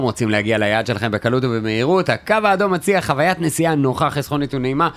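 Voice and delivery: smooth radio ad read; polished sponsor announcement read. Acted. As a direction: sell the light rail line calmly. Reads a radio ad.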